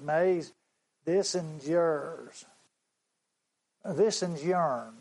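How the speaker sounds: put-on slow, earnest boy's voice, "This is yourn" with a country "yourn"; the boy's humble offer. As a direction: hand the pennies over slowly, like the boy. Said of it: "this is how the boy said it".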